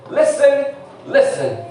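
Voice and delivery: sudden English "Listen, listen" from the pulpit; code-switched English call. Shown as a demonstration. Pastor slipping into English mid-sermon, calling out. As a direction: break into English to grab attention. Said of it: "predicando se me sale decir esto".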